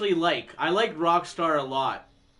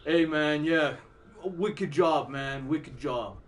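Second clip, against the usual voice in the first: laid-back, lower dude voice; bearded rocker voice; 4 semitones lower, 3 dB quieter, slower than usual. Retold or imitated. Imitating the guitarist in the movie, a lower laid-back drawl. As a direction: lightly put on a mellow bearded rocker. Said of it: "he started talking like this".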